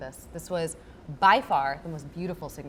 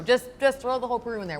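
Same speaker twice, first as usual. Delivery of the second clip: excited joking; 6 semitones higher, 6 dB louder than usual. Real, not acted. Joking about the whole Peru.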